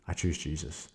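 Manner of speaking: breathless hushed whisper; whispered surrender after a sigh. Retold or imitated. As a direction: barely voice the words, hushed and resolute. Retelling the moment he chose.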